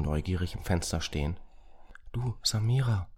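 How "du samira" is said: hushed, secretive call; quiet whisper. A narrator's reading. Racket spots the boy watching and alerts Samira, whispering. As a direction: whisper to get your partner's attention. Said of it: "sprach er leise".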